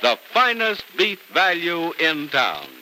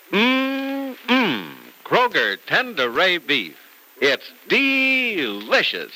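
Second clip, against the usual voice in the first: savoring voice; 4 semitones higher, much slower than usual. Acted. Ad opens with savoring voice.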